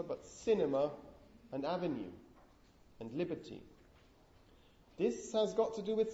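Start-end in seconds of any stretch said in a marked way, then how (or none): 0.3-3.6 cinema, avenue, liberty as "CIN-ema", "AV-enue", "LIB-erty"; cinema, avenue, liberty, each falling away after the first syllable; stress on first syllable. Shown as a demonstration. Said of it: "What's different about stress here?".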